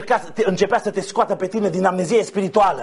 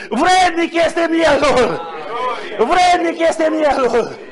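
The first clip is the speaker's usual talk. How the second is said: raised, slow, long-held cry of praise; exultant proclamation; 5 semitones higher, much slower than usual. Real, not acted. Preacher inviting all to sing the victors' song, exultant proclamation. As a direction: proclaim it slowly, stretching the words.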